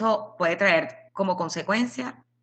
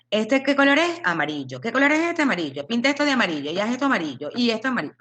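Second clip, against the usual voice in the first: mock drill teacher; 6 semitones higher, faster than usual. Drilling a child on colours.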